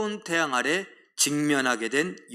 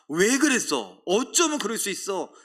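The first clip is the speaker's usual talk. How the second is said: sailors' reproach; 5 semitones higher, 4 dB louder than usual. Retold or imitated. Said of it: "이런 말을 듣게 합니다".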